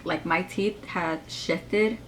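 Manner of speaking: slight lisp, braces in the way. Real, not acted. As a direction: talk around braces with a lisp. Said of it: "I'm sorry if I have a lisp".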